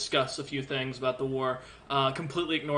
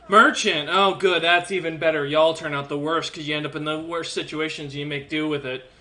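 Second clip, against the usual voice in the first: sarcastic dwarf; 5 dB louder than usual. Acted. Dwarf lecturing the merchant.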